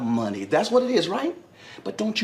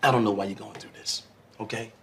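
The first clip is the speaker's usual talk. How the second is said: low, soft reassurance to a partner; placating; 7 semitones lower, 3 dB quieter than usual. Acted. Husband pleading his love to suspicious wife, low placating. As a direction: soothe them in a low, hushed voice.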